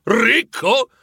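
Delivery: an indignant squawk of disbelief; scandalized outburst. Acted. Scrooge outraged at being called rich, scandalized outburst. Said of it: "ribatté Scrooge scandalizzato".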